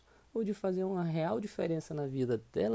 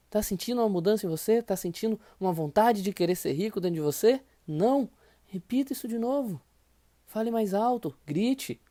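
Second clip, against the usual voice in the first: fired-up coach; 4 semitones higher, 4 dB louder than usual. Real, not acted. Coach urging louder, shouting.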